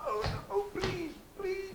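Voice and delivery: soft, high-pitched pleading; hushed, imploring little voice; mock pleading. Acting out desperate listeners being held.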